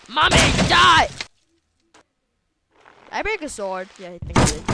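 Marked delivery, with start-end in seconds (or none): 0.1-1.1 loud shout at the enemy; battle yell. Real, not acted. Gamer yells at enemy mommy, loud shout. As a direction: yell it as you strike.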